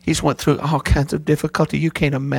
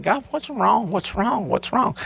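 anguished prayer; 6 semitones higher, slower than usual. Retold or imitated. Praying aloud in distress.

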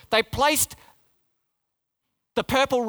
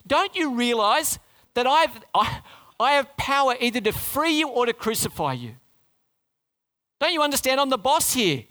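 voicing Pilate; 3 semitones higher than usual. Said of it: "is what Pilate's saying".

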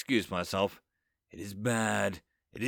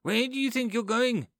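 higher, gleeful rampage; gleeful yelling; 8 semitones higher than usual. A narrator's reading. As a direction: sort the men out with glee. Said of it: "Becca yells".

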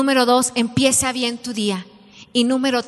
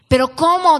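sharp, higher and louder protest; indignant outcry; 4 semitones higher, 5 dB louder than usual. Retold or imitated. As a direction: act out the outraged city woman. Angry customer at the farm door.

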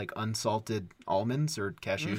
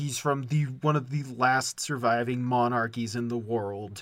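drawn-out sarcastic sympathy; slow, mocking boo-hoo lament; mock pity; slower than usual. Podcaster pretending to pity a poor old monarch, mock pity.

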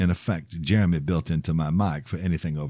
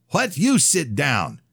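high, slow indignant retort; 10 semitones higher, 4 dB louder, slower than usual. Acted. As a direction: fire it back indignantly. Priest retorts at gunman.

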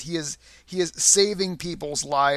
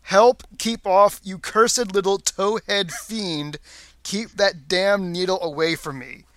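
retold scream; 2 semitones higher, 3 dB louder than usual. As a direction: act out the scream, loud at first then easing. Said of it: "he actually screams".

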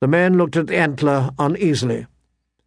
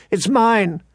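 higher-pitched, fierce claim; fierce cry; 7 semitones higher than usual. A narrator's reading. Bran claiming the pup from Greyjoy, crying out fiercely. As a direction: protest fiercely, pitch raised, volume only slightly up. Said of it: "Bran cried out fiercely".

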